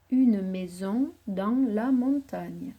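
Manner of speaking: slow, partly whispered repetition; slow memorising repeat. Shown as a demonstration. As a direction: murmur the sentence slowly to learn it. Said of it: "Le petit garçon regarde". (répétition lente et chuchotée pour mémoriser)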